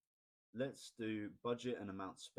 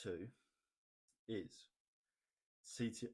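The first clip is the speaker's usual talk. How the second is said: halting speech with hiccups; 2 semitones higher than usual. Real, not acted. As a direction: push through the hiccups. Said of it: "Oh, I've got the hiccups".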